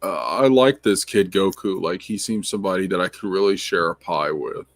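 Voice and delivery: Ethan Van Sciver impression. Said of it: "I can do some voice".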